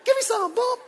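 high, loud laughing whoops; excited whooping. Pretend. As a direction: whoop it up like you just got Jesus. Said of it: "I will be so excited".

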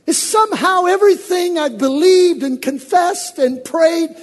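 anguished complaint building to a shout; complaining believer. Retold or imitated. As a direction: plead with God as if betrayed. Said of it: "I only say that".

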